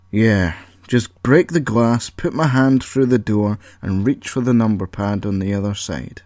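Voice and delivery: mock praise through annoyance; sarcastic. The speaker sarcastically blames the computer.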